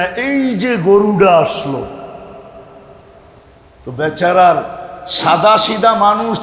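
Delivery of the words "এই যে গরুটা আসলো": drawn-out, half-hearted jeering call; mock student shout. Students hail the food-carrier they nickname cow, mock drawn-out shout. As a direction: imitate pupils calling out, stretching the words. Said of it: "ছাত্ররা চিৎকার দিতে দেরি করে না".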